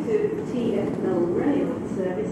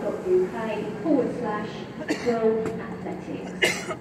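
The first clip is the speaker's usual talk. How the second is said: over the station tannoy; echoing platform PA voice; train station announcement. Real, not acted.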